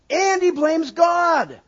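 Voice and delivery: God punched high, loud and slow; slow down and hit "God" hard; stress on God. Shown as a demonstration. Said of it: "stress on God".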